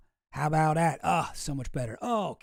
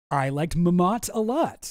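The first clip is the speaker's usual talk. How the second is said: lightly put-on voice, slow; Jeffrey Epstein; 4 dB louder, slower than usual. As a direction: read it slowly as another character. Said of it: "says Epstein".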